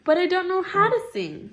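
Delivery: Pink crying. Acted. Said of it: "cried Pink".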